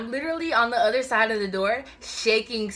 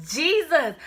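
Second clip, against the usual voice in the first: afraid; 8 semitones higher, 5 dB louder than usual. Retold or imitated. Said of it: "I was like".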